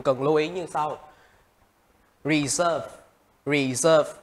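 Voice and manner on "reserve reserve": "reserve" with SERVE stressed; second-syllable stress. Shown as a demonstration. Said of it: "các bạn sẽ nhấn vào âm hai".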